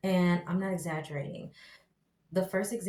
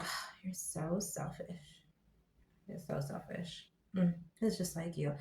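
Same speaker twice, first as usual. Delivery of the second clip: mock nagging wife, much softer; wife's accusation; 8 dB quieter than usual. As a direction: hiss the blame at him quietly. Voicing the wife's cold accusation.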